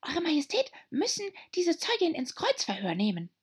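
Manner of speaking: hushed whispered advice. A narrator's reading. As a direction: lean in and whisper it to the king. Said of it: "mit leiser Stimme sagte".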